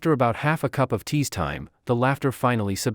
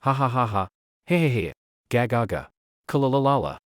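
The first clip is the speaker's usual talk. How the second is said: raucous laughter. Acted. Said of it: "erupted into raucous laughter".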